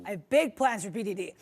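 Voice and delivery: lightly voiced scheming villain; supervillain voice. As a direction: say it like a plotting villain. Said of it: "why do you sound like a supervillain".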